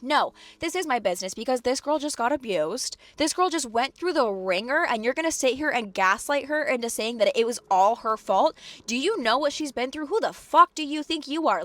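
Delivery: heated retold tirade, climbing in pitch; railing. Tenant railing at uncle for gaslighting the girl, heated. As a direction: build to a high, indignant challenge. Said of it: "I am railing into him".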